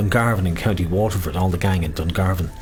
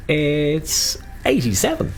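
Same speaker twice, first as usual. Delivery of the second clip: whispered call; 6 semitones higher, slower than usual. Acted.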